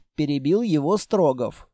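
normal talking voice

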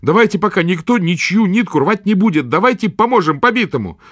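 put-on high, earnest boy's voice; a lad standing his ground; young boy. A narrator's reading. Boy Potyk pleads.

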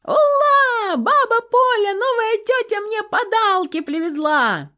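put-on high, loud child yell of delight; a boy shouting the news to his grandma; shrieking high child, bursting with joy; yelling little boy. A narrator's reading. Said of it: "завопил мальчуган".

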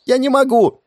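put-on high panicked girl's cry; panicked lady. Hanging from a rope, the lady squeals to the ratnik, high and panicked. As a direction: squeal it like a frightened young lady.

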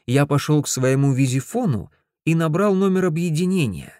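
ordinary delivery, nothing marked

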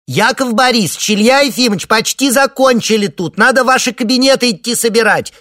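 высокий громкий детский зов; позови от двери; крик девочки. A narrator's reading. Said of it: "крикнула малышка". (звонкий детский крик издалека)

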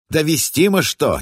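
high-pitched squeak; squeaky voice. Acted. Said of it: "неожиданно пропищал Олег Васильевич".

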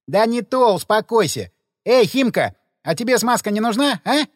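cheeky loud call across the room. A narrator's reading. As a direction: hail her across the room teasingly. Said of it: "окликнул Ходокири девушку".

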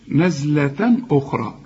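نزلة ending in a crisp n without hum; measured نزلة أخرى, n un-nasalised; clear tanween. Shown as a demonstration. Teacher demonstrates the rule, نزلة with clear final n. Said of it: "ما تغنش".

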